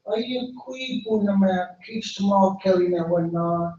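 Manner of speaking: a small bird politely greeting; little bird's greeting. Acted.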